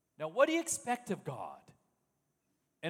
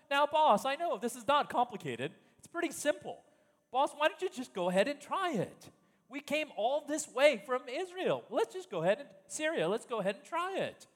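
coaxing lovingly; 5 semitones higher than usual. Acted. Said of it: "trying to coax his boss lovingly".

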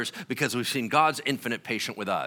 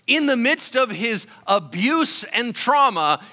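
louder, higher, pressing each phrase; full-force preaching; 9 semitones higher, 6 dB louder than usual. Acted. Pastor lifting the congregation with rising, full-force preaching.

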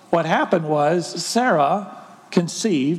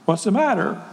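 the angel's question, asked a little higher as if it were silly; mock dumb question; 4 semitones higher than usual. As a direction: ask it like a slightly silly question. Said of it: "if an angel ever asks a dumb question".

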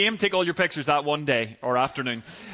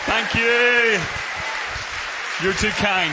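loud thanks over applause; 3 semitones higher, 3 dB louder, slower than usual. Real, not acted. Pastor enters to applause.

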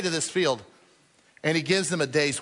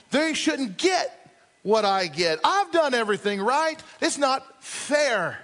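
resentful whine; 5 semitones higher, slower than usual. Acted. Voicing Jonah's resentment.

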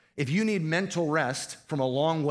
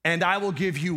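louder prompting call; 3 semitones higher, 4 dB louder than usual. Shown as a demonstration. Pastor pressing the congregation to answer, louder and urgent. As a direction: push "And I will give you" up and louder to draw the answer. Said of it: "Come on, church".

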